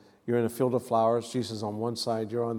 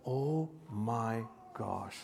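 soft, drawn-out amazement; hushed awe; 8 dB quieter, much slower than usual. Retold or imitated. Preacher reliving standing before the Last Supper, hushed awe. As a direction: stretch each word slowly, taking it in quietly.

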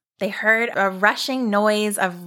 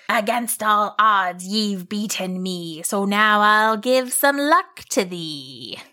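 slow gracious monster. Acted. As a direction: beaten monster granting luck. Monster concedes.

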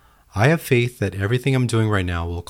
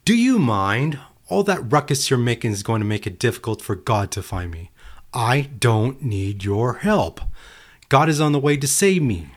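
dismissive brush-off; 3 semitones higher than usual. Acted. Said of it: "brushed it off and said".

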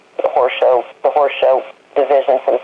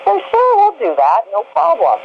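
higher, bright-voiced show organizer agreeing; cheerful Phyllis; 11 semitones higher, slower than usual. Show organizer happily agrees to the request, in a high sweet voice. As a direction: chirp it back like an eager helper. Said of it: "And so Phyllis says".

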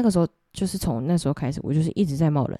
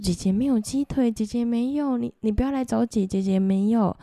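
higher, nervous pleading; pitched-up frightened refusal, retold; scared pleading; 6 semitones higher than usual. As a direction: beg the ghost to go away. Pleading with ghost boy.

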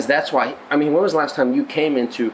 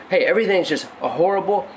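excited; 7 semitones higher than usual. Acted. Preacher voicing David's troubles.

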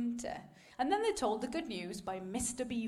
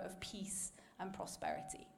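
whispered; 4 semitones lower, 9 dB quieter than usual. Real, not acted. Soft aside in sermon.

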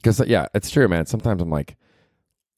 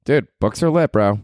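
mock bro voice; 4 semitones higher than usual. Mock bro voice after reading.

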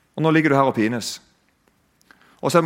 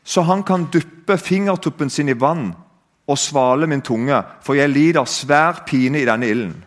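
retold calling out. Rich man begging Abraham for water, mildly raised retold cry. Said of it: "så roper da den rike og sier".

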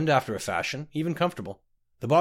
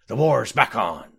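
slow, loud tipsy announcement; a hint of a drunk captain, drawn out; drunken slur; 5 dB louder, slower than usual. A narrator's reading. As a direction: proclaim it slowly through a light slur. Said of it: "slurred the captain".

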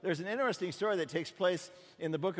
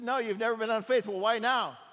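louder, higher puzzled outburst; baffled prophet; 5 semitones higher, 5 dB louder than usual. Acted. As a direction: demand an answer in disbelief. Prophet answers donkey.

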